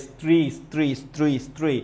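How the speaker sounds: each "স্ত্রী" as a single syllable; one-syllable demonstration. Shown as a demonstration. Teacher showing students "স্ত্রী" is one syllable, said in one go. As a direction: say "স্ত্রী" in one unbroken go, repeated. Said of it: "স্ত্রী শব্দটা একবারে উচ্চারণ করছি".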